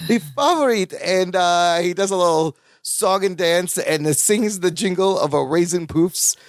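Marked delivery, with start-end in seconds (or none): 0.1-0.9 high mock-accented character voice; Balki. Echoing the Balki imitation.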